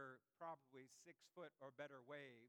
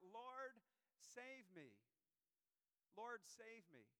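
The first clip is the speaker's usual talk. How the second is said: a mild retold plea, lightly raised; mild cry for help; 5 semitones higher, much slower than usual. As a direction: Lord called out higher, a touch of panic. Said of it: "cried out".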